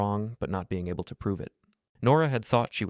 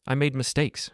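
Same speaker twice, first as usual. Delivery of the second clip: higher, pleading desperation; desperate; 6 semitones higher than usual. A narrator's reading. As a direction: beg him to understand. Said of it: "she said desperately".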